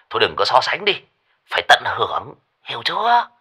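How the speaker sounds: fast, irritated rant; snapping. Acted. Lão Lý snapping at Minh Hải, fast irritated rant. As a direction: snap at the dumb question. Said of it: "lão gắt".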